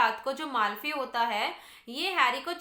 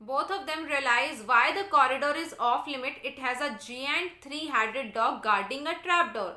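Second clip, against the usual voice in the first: slow, deliberate textbook read-aloud; measured classroom reading; 4 dB louder, much slower than usual. Real, not acted. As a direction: read it out slowly for a class, word by word. Reads the English text aloud.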